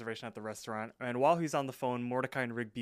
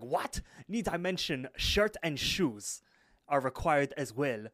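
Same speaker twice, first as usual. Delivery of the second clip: offended host; 2 semitones higher, 3 dB louder, slower than usual. Retold or imitated. Restaurant host to a caller about the dress code, offended. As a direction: play a put-out restaurant host, drawing it out. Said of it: "the dude gets offended".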